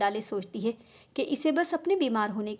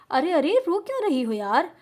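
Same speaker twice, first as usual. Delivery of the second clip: gently coaxing, a little higher; soothing a crying wife, lightly; mock-tender coaxing; 5 semitones higher, 3 dB louder than usual. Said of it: "बड़े प्यार से". (प्यार से पुचकारती आवाज़)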